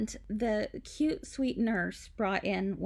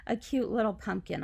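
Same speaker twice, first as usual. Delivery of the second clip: excited idea; 3 semitones higher, faster than usual. Retold or imitated. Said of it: "and I thought".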